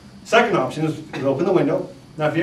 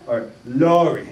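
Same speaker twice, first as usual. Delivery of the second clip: slow Australian "Lori" with a rounded LAW-ree; mock Australian "Lori"; Australian accent; 4 dB louder, slower than usual. Shown as a demonstration. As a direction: say "Lori" like an Aussie. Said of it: "if you're from down under".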